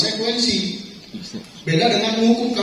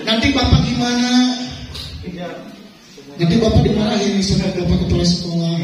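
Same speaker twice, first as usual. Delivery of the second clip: mild pleading. Acted. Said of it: "nada suaranya memelas, halus, sedih".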